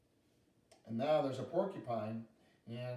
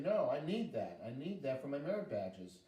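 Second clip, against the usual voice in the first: put-on upset little girl; 4 semitones higher than usual. Girl pulling her guidebook from the bear, upset. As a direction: protest like a girl losing her book.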